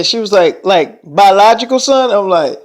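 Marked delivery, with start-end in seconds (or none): 0.7-2.1 higher, louder incredulous question; retold disbelief. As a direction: mimic her astonished double-check. Retold disbelief, asks again.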